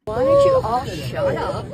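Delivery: angry shout. Real, not acted. Passenger yelling at the whole cabin to shut up, shouting.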